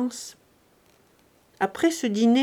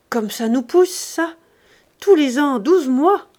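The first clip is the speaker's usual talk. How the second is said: jovial joke; 5 semitones higher, 7 dB louder than usual. Acted. Notary jokes about the girl.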